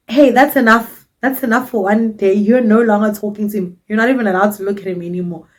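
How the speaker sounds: hammed-up jealous rant; mock jealous outburst. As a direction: scold her off him, half joking. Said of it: "did I not lose my shit".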